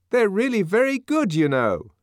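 high, placating nervous voice; nervous appeasing. A narrator's reading. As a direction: coax him with a nervous smile. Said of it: "rather nervous smile of propitiation".

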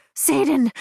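high sharp exclamation; sudden cry. A narrator's reading. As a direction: cry it out, caught off guard. Cry out in pleasure.

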